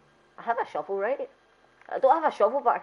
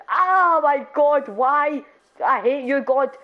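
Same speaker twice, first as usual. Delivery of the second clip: mock anguish; 4 semitones higher, 4 dB louder, much slower than usual. Mock despair at God.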